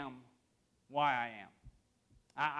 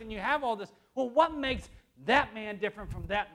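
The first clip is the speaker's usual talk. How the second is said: raised, driving sermon voice; emphatic preaching; 4 semitones higher, 6 dB louder than usual. Acted. Preacher describing kinds of men to the church, emphatic preaching. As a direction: preach it with rising energy.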